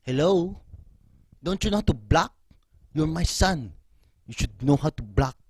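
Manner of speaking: loud, exasperated Filipino dad; mock angry dad lecture; dad's scolding. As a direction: scold like a fed-up father. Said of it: "he was like".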